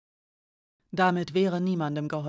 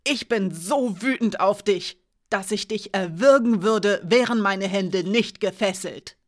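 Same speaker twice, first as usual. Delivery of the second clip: barely holding back rage; furious; 5 dB louder than usual. Acted. Alina says she is furious. (langsam, laut, voller Wut)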